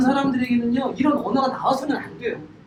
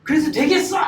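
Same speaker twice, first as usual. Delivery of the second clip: mock scolding parent; 4 semitones higher, 4 dB louder than usual. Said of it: "이렇게 안 해요?".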